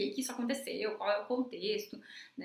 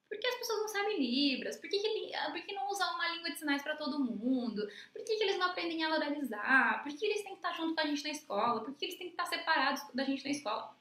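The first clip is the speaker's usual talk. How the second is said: higher-pitched string of imitated questions; puzzled questioning; 5 semitones higher than usual. Teacher voicing common questions about deaf people, puzzled questioning. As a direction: voice others' puzzled whys, pitched up.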